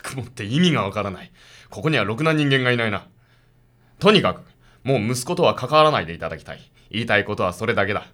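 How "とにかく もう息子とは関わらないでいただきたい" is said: stern order. Acted. Detective warns them away from his son, stern. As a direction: lay down the law.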